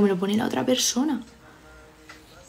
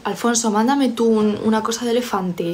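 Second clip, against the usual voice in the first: calling out; 5 dB louder than usual. Real, not acted. Calling out to a chat user.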